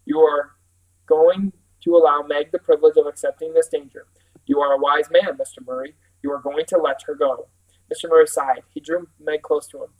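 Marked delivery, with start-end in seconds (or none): 0.0-7.5 sterner. Acted. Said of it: "voice was sterner than Meg had ever heard".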